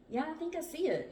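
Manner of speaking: high, eager sighting; excited. A narrator's reading. John leaning forward to spot the raft, excited. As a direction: pipe up with excited hope.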